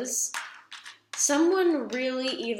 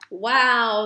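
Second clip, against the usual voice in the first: much louder startled wow; real wow; 9 dB louder than usual. Real, not acted. Reader reacting to drawing The Tower, startled. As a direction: struck by the card that turned up.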